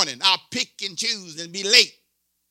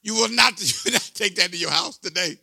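scolding himself. Retold or imitated. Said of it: "I say".

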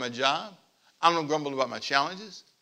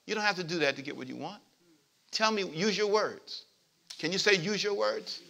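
lightly voiced parent, softened and raised; patient parent; 3 semitones higher, 9 dB quieter than usual. Parent to a crying child, gently coaxing. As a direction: coax softly, like a parent to a small child.

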